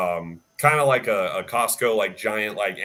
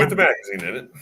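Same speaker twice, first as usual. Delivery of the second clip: "magazine" hit louder and faster; emphatic echo; 3 semitones higher, 4 dB louder, faster than usual. Real, not acted. Speaker echoes with emphasis.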